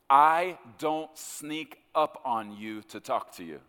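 slow, spaced-out words with weight; firm, deliberate. Retold or imitated. The Lord correcting a doubting son, firm and deliberate. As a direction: lay it down slowly, word by word.

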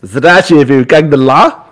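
slow mock-Texan Russian greeting; Texas-accented Russian. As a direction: stretch the Russian out with a Texas twang. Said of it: "speaks Russian with a Texas accent".

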